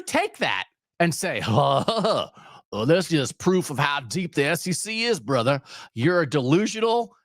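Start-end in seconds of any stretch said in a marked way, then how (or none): 1.5-5.6 put-on a light laid-back California surfer accent, dude-style. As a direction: toss it off like a Californian surfer, not too heavy. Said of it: "I'm doing a California surfer accent".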